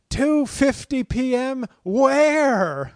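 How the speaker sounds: high, slow, bewildered squeak; mock confused listener. Podcast host mocking a confused listener, high and bewildered. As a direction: play the baffled listener asking where. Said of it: "you're wondering".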